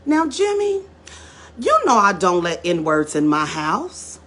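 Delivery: put-on politely dismissive old man; grandfather's cold refusal. Grandfather refuses to let Jim into the house, cold. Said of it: "the grandfather looks at him and said".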